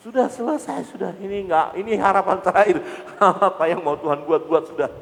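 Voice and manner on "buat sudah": usual speaking voice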